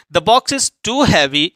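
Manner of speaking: very slow, word by word; deliberate classroom reading pace; slow dictation. Shown as a demonstration. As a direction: spell it out slowly for students. Teacher reads example sentence.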